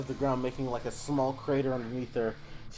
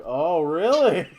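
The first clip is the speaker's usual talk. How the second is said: loud, drawn-out, higher teasing question; mock intrigue; 4 semitones higher, 9 dB louder, much slower than usual. Game master as Harada reacting to Shilong, teasing drawl. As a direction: stretch it out with a laugh behind it.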